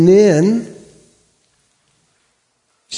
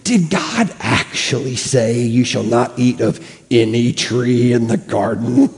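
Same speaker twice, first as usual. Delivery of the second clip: tempting serpent; 3 semitones lower than usual. Acted. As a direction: coax like a sly snake. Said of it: "he said to the woman".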